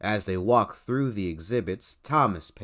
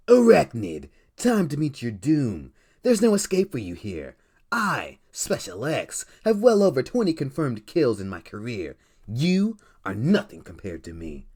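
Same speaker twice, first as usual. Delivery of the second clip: boastful villain; 4 semitones higher, 5 dB louder than usual. Acted. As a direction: announce yourself like a cocky villain.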